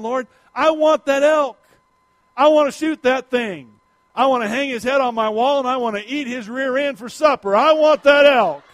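mock eager prayer. Hunter praying for the elk, mock eager plea. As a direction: beg God for the elk, half joking. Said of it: "And I'm praying".

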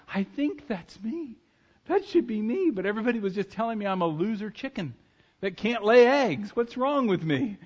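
high pleading eaglet, half-hammed. Sad eaglet wonders why he is different, high voice. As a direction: lift the voice like a lost young bird.

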